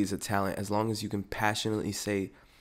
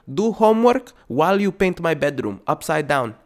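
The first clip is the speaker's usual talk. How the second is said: put-on higher, much louder accented rant; yelling immigrant parent; 7 semitones higher, 8 dB louder than usual. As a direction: rant at the kid like a furious immigrant mom. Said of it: "whatever country accent this is".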